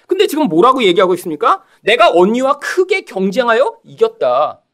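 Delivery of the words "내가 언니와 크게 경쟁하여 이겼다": slow, drawn-out mock boast; boastful. Rachel declaring victory over her sister, boastful. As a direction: play a triumphant brag, stretched out. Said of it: "내가 크게 이겼다"라고".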